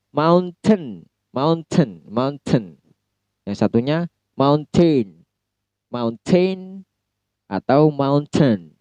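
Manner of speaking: "mountain" with a clear T; crisp T in "mountain"; British mountain. Shown as a demonstration. Teacher showing two British ways of "mountain". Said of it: "Ada dua pelafalan dalam British".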